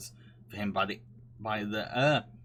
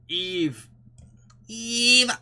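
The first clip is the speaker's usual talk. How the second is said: a loud, high shout for Eve; calling out; 11 semitones higher, 9 dB louder than usual. Real, not acted. Streamer calls out to Eve, loud and high. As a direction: call her over across the room.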